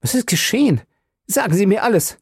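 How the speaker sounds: high, forceful demand; called out. A narrator's reading. Husband demanding answers from the doctors, urgent call. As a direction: insist on knowing everything. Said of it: "rief er".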